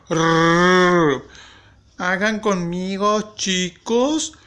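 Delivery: slow, exaggerated teacher imitation; mock teacher. Supervisor pretending to teach the sounds of R, playful slow mimicry. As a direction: draw out the words and roll the R hard. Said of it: "haciéndose pasar por mí la supervisora".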